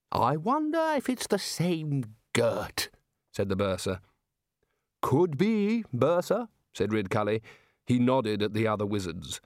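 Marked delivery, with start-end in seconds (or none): 0.1-2.9 very slow, higher, dreamy reminiscence; lost in a fond memory; addled old wizard, wistful; dotty bursar. A narrator's reading. 5.0-6.5 higher, indulgent; Ridcully placating the bursar; bluff, patient old wizard; humouring Archchancellor. A narrator's reading.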